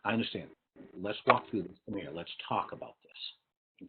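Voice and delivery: calm, slowing down at the end; steady, understanding invitation to talk; empathetic calm. Shown as a demonstration. Teacher calmly guiding an upset student through it. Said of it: "So empathy says".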